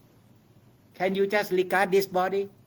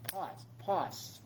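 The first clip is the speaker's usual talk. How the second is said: softer meditation noting, fading; 9 dB quieter than usual. Shown as a demonstration. Teacher shows the class the noting, fading softly. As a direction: let each pause drop away quietly. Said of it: "we call pause".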